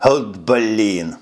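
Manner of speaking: mild, frustrated curse; cursing. A narrator's reading. Lieutenant swears after throwing down the receiver, mildly cursing. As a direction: let out an understated oath. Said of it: "выругался он".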